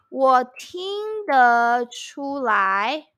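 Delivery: slow, even 我听得出来 for the class; teacher modelling 我听得出来 at half speed; slow teaching demo. Shown as a demonstration. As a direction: lay out each syllable of 我听得出来 slowly. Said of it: "you can say".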